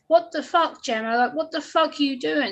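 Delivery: mock angry outburst. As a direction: throw his outrage back at her. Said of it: "He was like".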